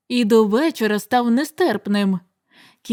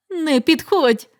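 slow, higher warning cry; 4 semitones higher, slower than usual. Acted. Youth warning his father off, crying out. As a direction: keep him away with a shout. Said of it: "крикнув юнак".

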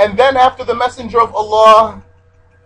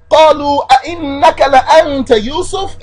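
astonished emphasis; 6 semitones higher, much faster than usual. Acted. Teacher reciting as the stunned brothers, emphatic and high. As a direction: stretch it into an amazed question. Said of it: "As if they're saying".

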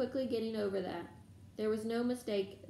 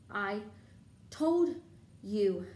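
gasping; 5 dB louder, much slower than usual. A narrator's reading. Hermione repeating her reproach after running, gasping. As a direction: gasp out each word separately. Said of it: "Hermione gasped".

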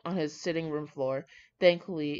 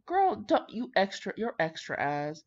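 sassy scold; 2 semitones higher, slower than usual. Real, not acted. Scolding the bride's secrecy.

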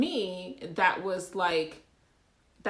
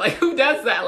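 real laugh, much louder and higher; 6 semitones higher, 12 dB louder than usual. Real, not acted. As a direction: laugh in disbelief at the idea. Laughing at the idea.

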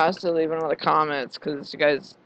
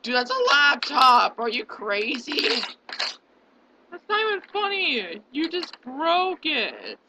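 shocked disbelief; 7 semitones higher than usual. Real, not acted. Reacting to smashed laptop clip.

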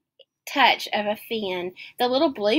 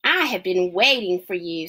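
lower, deeper wise octopus voice; 3 semitones lower than usual. Acted. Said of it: "said the octopus".

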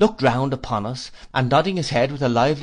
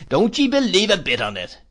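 Mister Peggotty; 8 semitones higher, 4 dB louder than usual. Acted. Peggotty's hearty voice.

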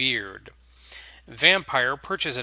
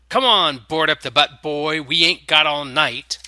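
cheesy smirking vampire; 3 semitones higher, 8 dB louder than usual. A narrator's reading. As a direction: bark it out with a cheesy grin. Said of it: "He smirks cheesily".

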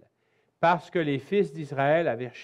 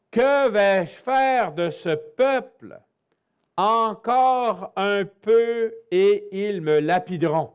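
desperate cry to God; 5 semitones higher, 4 dB louder, slower than usual. Acted. Moses cries out to God.

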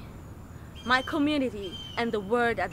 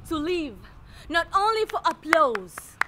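measured lines with long dramatic pauses; poetic recitation; 3 semitones higher, 4 dB quieter than usual. Acted. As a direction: recite it like a spoken-word self-portrait, phrase by phrase. Recites poetic third-person self-portrait.

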